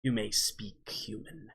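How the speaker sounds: low, drawn-out booming command; booming demon voice. Acted. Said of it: "he looks at you and he goes".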